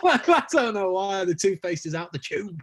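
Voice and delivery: giggling through it, slow; laughing. Real, not acted. Band member laughing at himself on the podcast, giggling. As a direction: laugh at your own silly accent. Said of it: "don't know why I did that in an accent".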